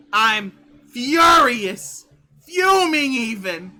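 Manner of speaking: building to a shout. Real, not acted. Escalating to shout.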